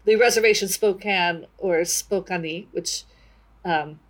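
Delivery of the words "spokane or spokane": "Spokane" first as spoh-KAN, then as spoh-KAH-nee; two ways to say Spokane. Shown as a demonstration. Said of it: "we had some discussion about whether or not to call".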